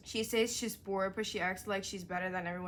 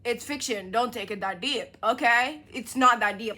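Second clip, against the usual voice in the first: sarcastic; 3 semitones higher, 10 dB louder than usual. Real, not acted. Mocking reviewer, sarcastic.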